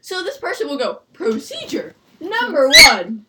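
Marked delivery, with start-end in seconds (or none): 1.1-3.2 slow, deliberate monotone read-out; mock monotone. Imitating a classmate reading lab instructions, slow monotone. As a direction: read it out slowly like a droning classmate. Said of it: "All in monotone voice".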